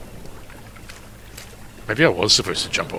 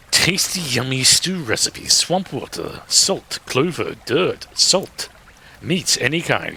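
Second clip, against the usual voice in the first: high reading voice; 5 semitones higher, slower than usual. Acted. Reading recipe in put-on voice.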